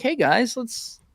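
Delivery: a hint of an eager mediator; mock peacemaker. Mediator calming both sides.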